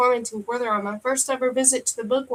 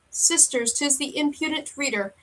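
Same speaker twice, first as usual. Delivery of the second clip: lightly voiced old witch; a hint of a crone sneering; 4 semitones higher than usual. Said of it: "said the first witch".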